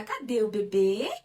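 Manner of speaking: put-on sing-song peekaboo to a baby; playful baby talk. Shown as a demonstration. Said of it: "e pergunta". (falando com o bebê)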